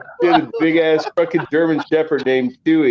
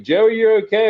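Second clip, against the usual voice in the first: worried neighbor lady; 9 semitones higher, 4 dB louder, faster than usual. Retold or imitated. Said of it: "she was like".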